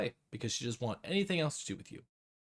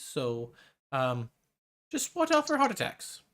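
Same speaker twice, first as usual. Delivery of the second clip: lightly higher, breezy healer voice; a hint of a sly old healer; Kanaika's voice; 7 semitones higher than usual.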